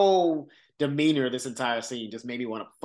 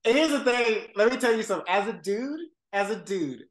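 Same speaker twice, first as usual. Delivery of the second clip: high, loud let-me-tell-you; emphatic build-up; 6 semitones higher, 4 dB louder than usual. Real, not acted. Host getting fired up to explain, higher and louder. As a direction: launch in, fired up.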